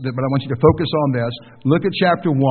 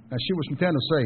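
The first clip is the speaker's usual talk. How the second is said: put-on Tennessee accent; 7 dB quieter, faster than usual. Preacher teasing about a friend's wife's home state, imitated Tennessee accent. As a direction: say "Tennessee" like a local, ending in "say". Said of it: "you could tell she was from Tennessee".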